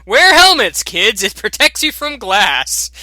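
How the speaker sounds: hammed-up safety ad for children; mock safety PSA. Player gives viewers a joke helmet safety message, hammed-up PSA.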